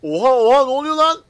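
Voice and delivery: loud startled oha, rising high; shocked outburst. Real, not acted. Driver sees another truck drift off the road, shocked and loud. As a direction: caught off guard, blurt it out.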